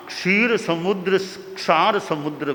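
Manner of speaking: क्षीर with long ee, then क्षार with long aa; one vowel changed. Shown as a demonstration. Teacher showing a one-vowel slip, क्षीर against क्षार. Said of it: "एक मात्रा की गलती हो".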